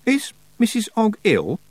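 put-on lifted to a young girl's pitch, puzzled; Tiffany asks, puzzled; high girl's voice. Girl voice asking.

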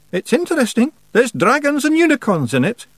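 high, loud Scots character voice; little rogue angling to get away with a fib; wheedling wee Feegle. A narrator's reading. Rob's character voice in dialogue.

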